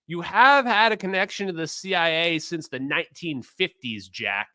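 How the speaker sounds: lightly imitated accusing interjection; Bernie. Streamer imitating Bernie talking over Jack, lightly accusing. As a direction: butt in with a mild mock accusation. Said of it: "Bernie just talks over him and is like".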